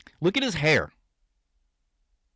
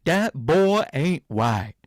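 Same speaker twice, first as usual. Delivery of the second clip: mock Hank Hill; much slower than usual. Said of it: "That doesn't sound like Hank Hill".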